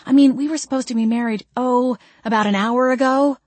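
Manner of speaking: fast, exasperated sarcasm; sarcastic. Acted. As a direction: needle him, impatient. Jane impatient sarcasm.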